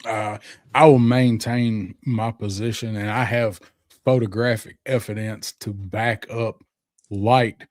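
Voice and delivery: measured Southern courtroom lawyer; Southern accent. Acted. Prosecutor arguing to the judge against a toy sniper, Southern accent. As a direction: argue the case in a Southern accent. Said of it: "I don't know how you can do that accent".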